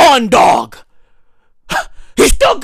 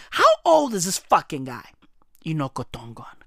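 much lower, softer deadpan mutter; 7 dB quieter, faster than usual. Real, not acted. Muttering the same question to himself, low and deadpan. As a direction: drop it low and flat.

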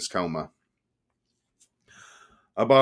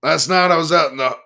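loud, higher rowdy biker voice; loud drunk biker; 6 semitones higher, 6 dB louder than usual. A narrator's reading. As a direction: boom the story out at the bar. Boomer hoodlum keeps talking loudly.

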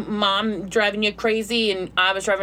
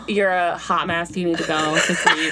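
lightly voiced husband; 5 semitones lower than usual. Husband voiced, low slow.

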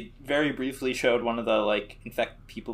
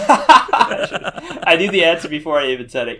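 slow, broken up by real laughter; words dissolving into laughter; laughing; 3 semitones higher, 8 dB louder, slower than usual. Real, not acted. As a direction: talk through a big laugh. Laughing at the expected answer.

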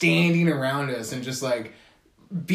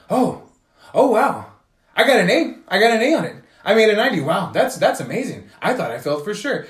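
higher and louder, hammed-up amazement; mock surprised delight; 5 semitones higher, 5 dB louder than usual. Classmate faking amazement at his A, hammed-up mock delight. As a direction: overact the surprise at your own grade.

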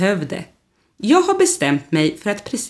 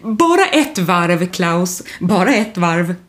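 glad; slower than usual. Acted. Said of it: "Staffan skiner upp och säger glatt".

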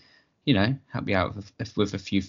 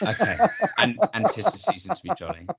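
laughing while talking, a little higher; 9 semitones higher than usual. Real, not acted. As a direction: burst into giggles as you speak. Jack laughs at being allowed.

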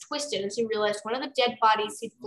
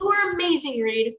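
firm reassurance; 5 semitones higher, 4 dB louder than usual. Acted. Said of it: "Pheasant said firmly".

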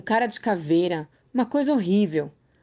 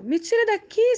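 desperate scream; 12 semitones higher than usual. A narrator's reading. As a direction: scream to be let out. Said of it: "gritava desesperada".

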